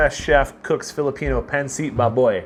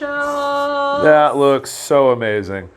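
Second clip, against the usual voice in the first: slow, awed delight; much slower than usual. Real, not acted. Savoring the look of the food.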